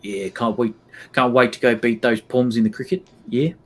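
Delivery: passable Australian accent, rather New Zealand; playful Australian impression with a Kiwi lilt; Aussie accent. Shown as a demonstration. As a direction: improvise as an Aussie cricket fan, in accent. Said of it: "Passable, but quite New Zealand".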